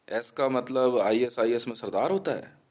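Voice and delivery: mocking quote. Mocking the Sikh men's claim.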